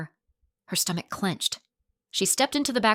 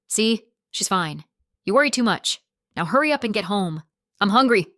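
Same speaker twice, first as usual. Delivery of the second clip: put-on gruff drunk; 4 dB louder than usual. Drunk husband orders wife.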